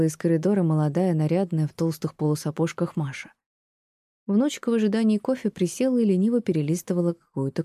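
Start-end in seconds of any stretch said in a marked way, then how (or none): none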